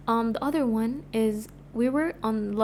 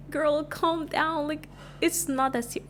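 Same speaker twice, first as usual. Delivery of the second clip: mock dismissive teacher; 5 semitones higher, slower than usual. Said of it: "she was like".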